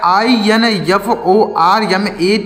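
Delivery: letter by letter, slowly; spelling out slowly. Shown as a demonstration. Teacher spells the word slowly for children. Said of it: "एक word लिखा गया है".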